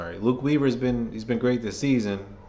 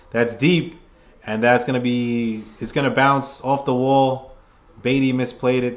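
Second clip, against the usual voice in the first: building live play-by-play call, louder; 4 dB louder than usual. Acted. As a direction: call the hit like a broadcaster.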